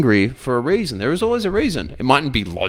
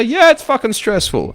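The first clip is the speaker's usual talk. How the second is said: mock-exasperated customer, pitched high and louder; acted venting; 11 semitones higher, 5 dB louder than usual. Stressed customer replying to the support person, acted venting. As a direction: vent like a worked-up customer.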